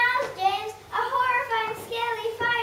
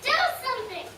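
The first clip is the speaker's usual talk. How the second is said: higher frantic cries for help; panicked pleading; 5 semitones higher, faster than usual. Acted. Panicked elephants at mansion.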